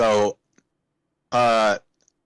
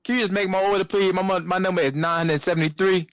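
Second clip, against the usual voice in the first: higher-pitched, pressing request; lightly imitated customer; 8 semitones higher than usual. Customer pressing the worker to make an order, lightly mimicked, higher pleading. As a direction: put on a pestering customer a little.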